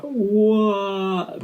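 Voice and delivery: high, sudden stunned gasp of a word; like the twist just hit you; shocked what. Retold or imitated. Vlogger imagining fans stunned by a surprise reveal, high shocked cry.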